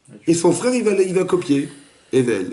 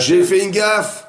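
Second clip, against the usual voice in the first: higher, slow dawning admission; Cain realizing his mistake; 6 semitones higher, much slower than usual. Acted. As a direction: let the realization land slowly, pitched up. Voicing Cain's ideal reasoning. (Caïn qui comprend son erreur, lent et aigu)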